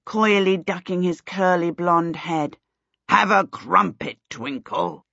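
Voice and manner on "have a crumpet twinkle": mildly hearty kingly offer. A narrator's reading. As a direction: offer it with a touch of royal heartiness. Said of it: "the king said heartily".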